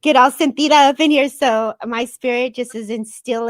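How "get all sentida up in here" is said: emotional. Real, not acted. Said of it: "I'm not gonna get emotional and cry".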